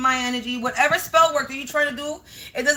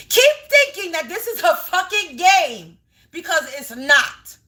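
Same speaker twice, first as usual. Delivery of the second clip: tearful fury; 3 semitones higher than usual. Real, not acted. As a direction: spit it out through rage and tears. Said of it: "the tone that I'm saying it in".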